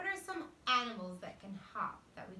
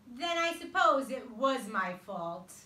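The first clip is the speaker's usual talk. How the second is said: sadly; 2 semitones higher, 9 dB louder than usual. Acted. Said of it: "said very sadly".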